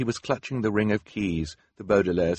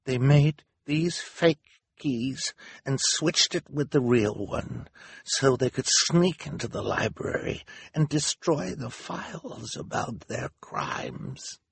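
slow, higher, halting character voice; accusing Hal; 7 semitones higher, slower than usual. A narrator's reading. Hal telling the crowd of fake keys, slowly accusing. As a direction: spell out each crime slowly.

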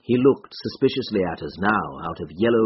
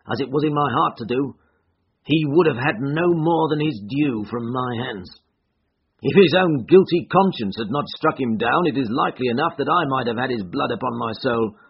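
lightly voiced man protesting, pitch raised; accused man, vehement; 4 semitones higher, 3 dB louder than usual. Accused man explains the death to an investigator, vehement. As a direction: justify yourself with rising force. Voices Wood defending himself.

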